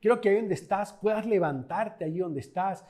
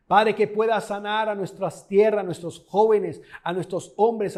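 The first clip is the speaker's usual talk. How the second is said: praying aloud, rising louder on each plea; fervent prayer; 3 dB louder than usual. Real, not acted. Pastor praying for the viewers, fervent and loud. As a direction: pour it out to God in earnest.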